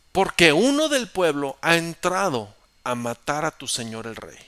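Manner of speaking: loud, high accusation; accusing shout. Acted. David accusing Abner across the valley, loud. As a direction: hammer home the charge.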